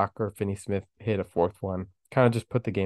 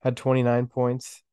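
raspy, sick voice; hoarse with a cold; 2 semitones higher than usual. Real, not acted. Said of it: "excuse the, uh, the raspy voice".

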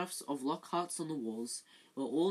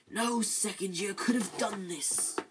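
firm; 5 semitones higher, 3 dB louder, slower than usual. Acted. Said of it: "said Dumbledore firmly".

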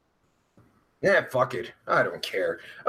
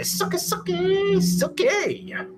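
much higher sing-song taunting; mock taunt; 12 semitones higher, slower than usual. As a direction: tease them in a squeaky chant. Reading a viewer's taunting comment.

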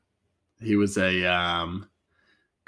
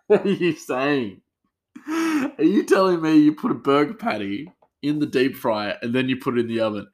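higher-pitched mock disbelief, easing toward the end; incredulous; 5 semitones higher, 3 dB louder than usual. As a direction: retell it as a baffled challenge. Retold incredulous challenge to coworker.

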